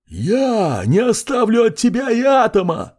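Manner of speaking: high, otherworldly creature voice; monstrous threat. A narrator's reading. Abyss creature vows to leave not an atom of him, monstrous. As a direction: promise total destruction like a beast.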